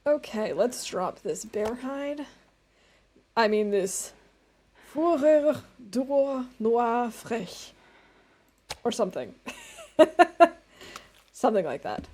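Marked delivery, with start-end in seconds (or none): 4.9-7.7 slow American attempt at French with a German accent; halting French, drawn out, German-tinged. Real, not acted. Streamer reading out French words, German-accented French. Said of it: "Sound like an American speaking French in a German accent".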